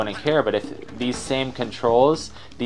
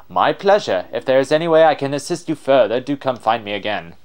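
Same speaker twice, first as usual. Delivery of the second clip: lightly theatrical explorer's farewell; showy, courteous explorer; extra explorer voice; 3 semitones higher, 5 dB louder than usual. Acted. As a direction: sign off as a gallant adventurer. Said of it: "give him an extra voice".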